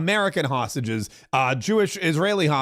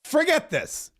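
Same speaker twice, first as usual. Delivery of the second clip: a hint of Trump laying down an ultimatum, slowing right down for all hell; Trump impression; 3 semitones higher, slower than usual. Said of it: "And he goes".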